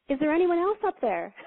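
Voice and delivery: mock hopeful cry upward; hopeful punchline. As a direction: ask the sky for a second opinion. Punchline, man looks up.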